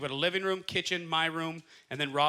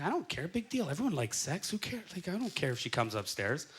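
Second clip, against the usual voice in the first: casual shrug; 6 dB quieter than usual. Retold or imitated. Quoting himself, unbothered.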